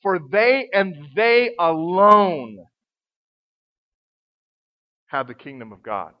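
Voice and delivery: slow, weighty "for they and they alone"; stress on they and they alone. Shown as a demonstration. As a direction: lean hard on "they" both times. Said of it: "we call it emphatic".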